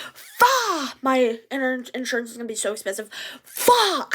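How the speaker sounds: put-on teen freaking out about insurance costs; panicked cursing. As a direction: wail the curses in money panic.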